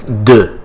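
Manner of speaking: "de" as French duh, with a d; French pronunciation. Shown as a demonstration. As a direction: model "de" as duh, close to English "the". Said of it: "but pronounced as".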